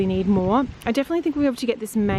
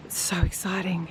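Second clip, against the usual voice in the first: whispering; 2 semitones lower, 4 dB quieter than usual. Real, not acted. Seedlings coming up.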